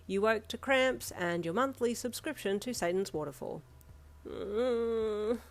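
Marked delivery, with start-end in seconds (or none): 4.3-5.4 groan. A narrator's reading. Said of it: "you groaned into your pillow".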